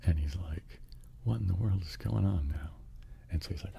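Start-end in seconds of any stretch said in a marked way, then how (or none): 1.2-2.7 higher, acted bewilderment; baffled exclamation. Bill sees the guy buying lead, baffled. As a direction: wonder aloud, mildly exasperated.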